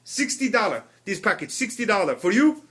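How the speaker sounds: mock-Israeli accent, haggling; name the price like an Israeli hawker; Israeli salesman. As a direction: Israeli bargain-offer impression. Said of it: "he is not native to this country".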